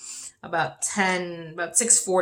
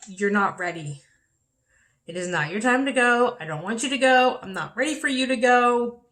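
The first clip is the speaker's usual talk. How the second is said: raised, pleading voice; begging her not to go, higher and louder; retold yell; 5 semitones higher, 3 dB louder than usual. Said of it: "I pretty much kinda yelled at her".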